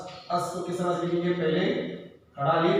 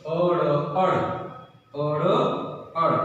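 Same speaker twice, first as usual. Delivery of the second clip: अड़ said firmly and a bit louder each time; emphatic repetition; 3 dB louder than usual. Shown as a demonstration. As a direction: drill अड़ for the class. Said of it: "क्या पढ़ेंगे इसका?". (कक्षा को अड़ ज़ोर देकर दोहराना)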